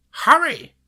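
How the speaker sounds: very high, loud urging shout; high-pitched grandma shouting; grandma's yell. A narrator's reading. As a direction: shriek it to hurry someone along. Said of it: "my grandma yelled".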